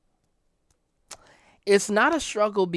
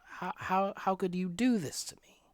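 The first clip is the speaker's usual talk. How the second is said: whispered plea; 3 semitones higher, 6 dB quieter than usual. Retold or imitated. Imagined plea to offender.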